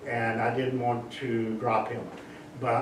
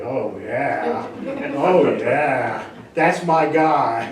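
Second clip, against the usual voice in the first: a singer's deep voice; 7 dB louder, much slower than usual. Pretend. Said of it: "it's that deep voice, that Barry White voice".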